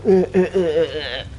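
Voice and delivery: imitating grunts. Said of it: "somebody fucking going".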